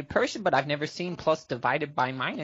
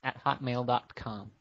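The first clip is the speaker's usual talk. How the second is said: dictating; 6 semitones lower, 5 dB quieter, slower than usual. Real, not acted. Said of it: "I'll spell it out for you".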